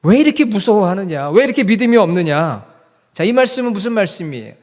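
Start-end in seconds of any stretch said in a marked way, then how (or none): 0.0-2.7 loud, raised reproachful questions; Jesus. Acted. Jesus to complaining, blaming disciples without faith, loud reproach. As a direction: scold them for their doubt, loudly. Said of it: "하소연했던 제자들에게 예수님께서".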